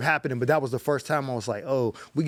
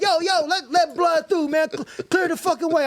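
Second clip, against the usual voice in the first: gang member calling out; 13 semitones higher than usual. Retold or imitated. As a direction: yell up high to let him through. Gang member calls to clear path.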